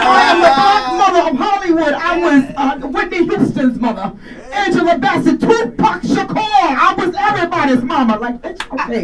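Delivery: booming grand diva swagger; Jennifer Lewis. Retold or imitated. Comic doing Jennifer Lewis for the crowd, high grand diva voice. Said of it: "sound like her".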